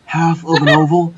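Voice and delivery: close-mic breathy tutorial voice. Pretend. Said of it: "have that breathy voice and just be like".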